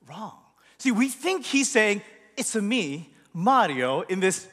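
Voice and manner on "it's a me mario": understated mock Italian; a hint of cartoon Italian, toned down; Mario's Italian accent. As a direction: lightly put on the Italian catchphrase. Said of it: "Italian accent".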